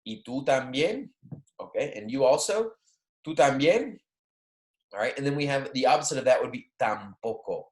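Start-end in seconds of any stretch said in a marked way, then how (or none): 3.3-4.0 playful retort. Shown as a demonstration. Voicing a reply to a peer.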